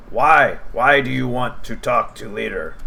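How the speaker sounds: high, suspicious goblin. Acted. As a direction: question them like a jumpy goblin. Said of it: "He says".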